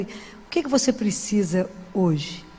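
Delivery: low, slow, tender question; gentle offer. Retold or imitated. Speaker to a homeless man she approached, gently offering. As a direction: ask it gently and unhurriedly.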